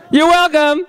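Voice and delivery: put-on high, tiny toddler voice. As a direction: imitate your eighteen-month-old daughter proudly. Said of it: "what'd she say?".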